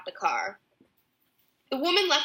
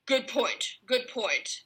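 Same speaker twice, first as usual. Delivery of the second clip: softer mumbled agreement; muttered; 3 semitones higher, 6 dB quieter, slower than usual. A narrator's reading. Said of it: "Ballyrag muttered".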